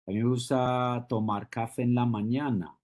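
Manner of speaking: quick Spanish, lifted toward "mañana"; rising Colombian intonation. Shown as a demonstration. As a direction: raise the tune on "mañana". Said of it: "I'm raising it".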